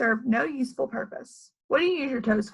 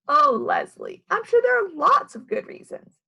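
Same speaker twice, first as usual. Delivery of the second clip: high, louder gushing teacher; 10 semitones higher, 5 dB louder than usual. Acted. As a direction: coo like a sweet teacher. Teacher Mrs Jewls reassuring.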